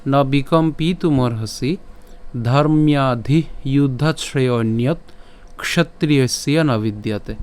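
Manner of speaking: slow, measured Sanskrit verse recitation; formal, drawn-out shloka reading. Shown as a demonstration. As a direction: recite the verse deliberately, line by line. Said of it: "আজকের শ্লোকটি হলো".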